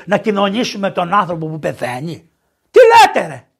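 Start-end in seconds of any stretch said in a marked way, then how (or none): 2.7-3.5 loud, high exclamation of disbelief; incredulous outburst. Acted. Priest answers objectors to prison communion, loud incredulous cry. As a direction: burst out sharply at the very idea.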